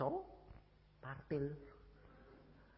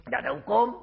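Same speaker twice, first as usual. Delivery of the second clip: NGGAK ADA HUKUM pushed louder and higher; emphatic repeat; 5 semitones higher, 9 dB louder, faster than usual. Real, not acted. (tegaskan "Nggak ada hukum" dengan suara naik)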